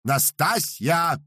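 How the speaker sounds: loud, high, drawn-out call of her name; sudden shout. Acted. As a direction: yell after the departing cook. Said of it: "неожиданно крикнул Пётр Игнатьевич".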